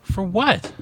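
high-pitched question called across the room; real calling back. Real, not acted. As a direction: call back a puzzled question to someone out the door. Yelled exchange through open door.

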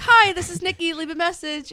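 high, bright-toned recorded greeting with a phone trill; voicemail greeting. Retold or imitated. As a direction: chirp it out like an answering machine. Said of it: "it's like".

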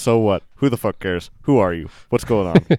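loud, punchy mock retorts; mock dismissive. Host parodying the clip's string of connectors, mock dismissive. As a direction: fire off each phrase as a brush-off.

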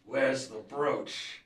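slow, hard demand; menacing demand. Acted. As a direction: grind out the question. Villain demands brooch.

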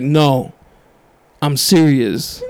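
"No, I'm serious" drawn out slowly, pause after No; retold deadpan insistence, measured and slow. Woman pressing a nervous customer, slow and insistent.

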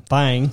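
"thing" drawn out toward "thang"; country twang. Real, not acted. Admitting he's already in country, "thing" twanged as "thang". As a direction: stretch the vowel of "thing" country-style. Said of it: "I'm already in country".

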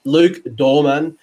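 slow, drawn-out mock English accent on the name; a deliberately bad English accent; hammed-up English accent; bad Pommy accent. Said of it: "that's my really bad Pommy accent".

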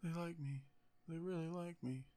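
hushed, half-voiced quote of the speech; softly imitating an award speech; soft quoting. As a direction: murmur the line under the breath. Quiet mock of acceptance speech.

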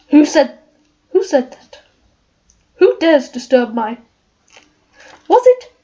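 lightly voiced lion, timid and stammering; Cowardly Lion. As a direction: read the lion's lines with a nervous stammer. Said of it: "I am the Cowardly Lion".

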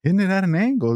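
high-pitched, strained retort; defensive reply. Retold or imitated. Driver answering the screaming vehicle commander, defensive reply. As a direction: mimic yourself protesting back up high.

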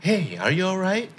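high, drawn-out worried question; concerned check-in. Acted. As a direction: ask a friend who seems off if they're okay. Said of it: "ด้วยน้ำเสียงประมาณนี้นะครับ ก็แสดงว่าเราเห็นว่าน่าจะมีอะไร". (ถามเพื่อนเสียงสูงอย่างเป็นห่วง)

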